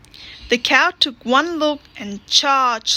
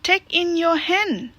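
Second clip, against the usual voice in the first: put-on wise old man; 6 semitones higher than usual. A narrator's reading. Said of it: "said the wise old man".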